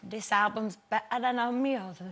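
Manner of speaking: put-on slow Geordie accent; a Geordie praising the album. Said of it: "I really apologise before I do this with Geordie".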